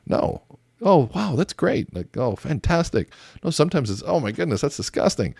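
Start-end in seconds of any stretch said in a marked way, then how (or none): 0.8-3.1 mock gushing. Shown as a demonstration. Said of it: "validations are always have to be like, kissing someone's ass". 4.0-5.3 honest disgust. Shown as a demonstration. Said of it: "'cause it's honest".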